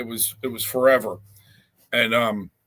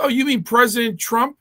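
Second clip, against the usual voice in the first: mock innocent question; 10 semitones higher, 4 dB louder than usual. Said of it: "I said".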